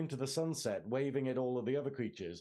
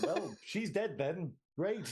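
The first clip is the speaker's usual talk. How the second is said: deadpan shrug; 4 semitones higher, slower than usual. Retold or imitated. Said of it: "He just be like".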